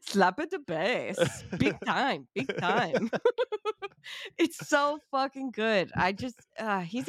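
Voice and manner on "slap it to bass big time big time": drawn-out mock Irish catchphrase; leprechaun Irish accent. Host imitates Rudd's bad impressions, silly Irish accent. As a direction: lilt it like a comic Irish leprechaun. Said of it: "every impression he does sounds like a leprechaun".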